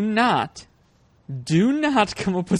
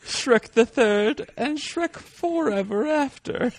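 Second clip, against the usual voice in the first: slow emphatic listing; 5 semitones higher, slower than usual. Real, not acted.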